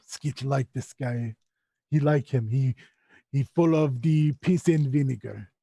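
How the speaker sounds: slow creature voice, stretched broken speech; Skitch, admiring creature. Acted. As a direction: proudly present a new friend in halting words.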